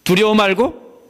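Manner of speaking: firm reassuring command; Jesus assuring the father; voicing Jesus. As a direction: assure the ruler, rising on fear. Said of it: "이 소리입니다".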